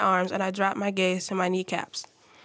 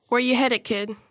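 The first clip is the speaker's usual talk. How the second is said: gruff officer; 3 semitones higher, 5 dB louder than usual. Acted. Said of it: "the same gruff voice".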